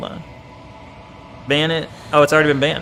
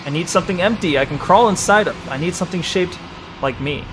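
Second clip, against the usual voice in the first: game text narration. Acted. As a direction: read it like a brooding inner voice. Reads game text aloud.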